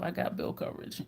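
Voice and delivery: normal talking voice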